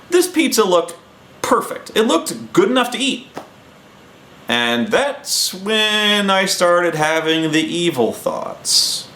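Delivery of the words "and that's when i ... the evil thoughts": slow, stretched build-up, trailing off on the last word; slow and ominous, dropping away at the end; drawn-out mischief. Real, not acted. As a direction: draw it out slowly, savouring the scheme. Savouring mischief in his tale.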